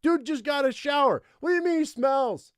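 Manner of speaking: very high squawky protest; playful high-pitched outburst; mock indignation. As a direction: object in a comically high voice. Mock protest breaking out of story.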